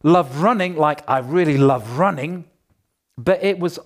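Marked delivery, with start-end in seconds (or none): 0.0-2.5 "running" punched, lifted in pitch; stress on RUNNING. Shown as a demonstration. Preacher showing the wrong emphasis to the church, stress on "running". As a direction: lean hard on "running" as the thing loved. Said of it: "if the emphasis was not on".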